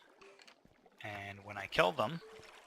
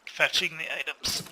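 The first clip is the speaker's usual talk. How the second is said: yawning; 6 semitones higher, 8 dB louder than usual. Real, not acted. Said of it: "sorry for the yawn there".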